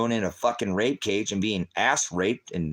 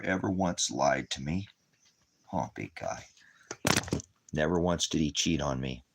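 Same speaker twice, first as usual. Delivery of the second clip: tender to dog; 3 semitones lower than usual. Real, not acted. Talking tenderly to his dog.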